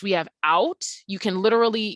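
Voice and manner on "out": "out" with the vowel opened up and held; long vowel. Shown as a demonstration. Teacher isolating the first syllable, "out" said long. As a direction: stretch the vowel in "out". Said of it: "make the sound long".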